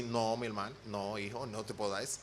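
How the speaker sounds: a quiet fatherly no; soft, low voice of the Lord. Retold or imitated. Preacher voicing the Lord's gentle refusal, soft and low. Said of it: "El Señor me dijo así".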